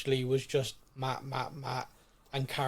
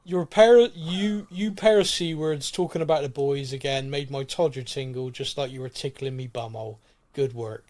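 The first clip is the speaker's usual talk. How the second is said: Butcher voice; 4 dB louder than usual. Pretend. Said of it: "I have to read this in a butcher voice".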